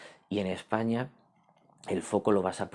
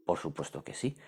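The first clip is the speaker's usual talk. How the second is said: lower, softer echo of the answer; quiet repeat; 3 semitones lower, 5 dB quieter than usual. Shown as a demonstration. Teacher to class, repeating the answer softly. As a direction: settle the point quietly.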